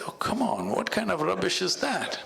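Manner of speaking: high, laughing mock disbelief as the pheasant; scoffing pheasant. A narrator's reading. Pheasant scoffing at the bull's dung advice, high and amused. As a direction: scoff at the bull's silly idea, half laughing.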